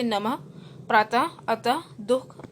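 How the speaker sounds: नमः, प्रातः, अतः ending in an h sound; careful, separated examples of final ह; visarga as h. Shown as a demonstration. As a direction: breathe out a short ह after नमः, प्रातः, अतः. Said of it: "ह की आवाज़ निकलती है".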